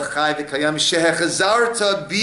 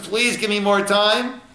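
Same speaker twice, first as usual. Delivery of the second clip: raised-pitch pleading; lightly acted higher-pitched entreaty; soul's plea; 5 semitones higher than usual. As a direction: appeal upward, as a soul asking. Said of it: "the Neshama says".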